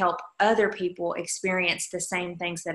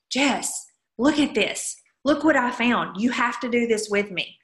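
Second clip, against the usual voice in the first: excited Mandy; 3 semitones higher than usual. Retold or imitated. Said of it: "super excited".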